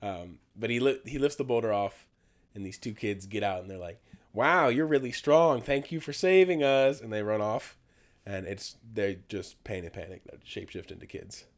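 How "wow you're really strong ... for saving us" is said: put-on wholesome kid voice. Kids thanking Hercules.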